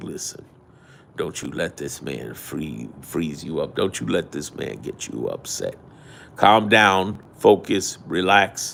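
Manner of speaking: mellow, soft, cool, cuddly soothing voice. Showing how a planned calm-down audio series will sound: cool, cuddly voice. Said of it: "my cool, cuddly black man voice".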